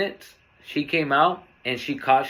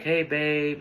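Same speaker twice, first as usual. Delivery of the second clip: very sweet. Retold or imitated. Girlfriend greeting him before the tragedy, very sweet. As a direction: imitate her sweet, affectionate greeting. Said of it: "the way she spoke to me was very sweet".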